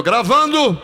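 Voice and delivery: a stunned check; incredulous question. Retold or imitated. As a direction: director surprised by the request.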